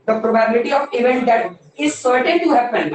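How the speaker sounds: slow, measured read-out; teacher reading from the textbook. Shown as a demonstration. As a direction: read the question word by word. Teacher reading question aloud.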